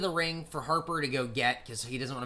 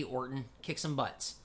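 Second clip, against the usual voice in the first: mock inner voice; 2 semitones lower, 8 dB quieter than usual. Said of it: "Hey, hey".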